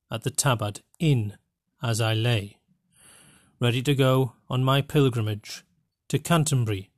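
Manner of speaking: careful English accent reading, phrase by phrase; best English accent. Shown as a demonstration. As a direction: read it in your best standard English accent, with pauses. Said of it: "in my best English accent".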